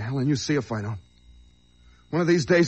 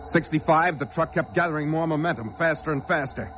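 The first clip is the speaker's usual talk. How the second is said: rising panic, pitched up; tense narration; 4 semitones higher than usual. Acted. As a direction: narrate the runaway truck with dread. Panicked narration of runaway truck.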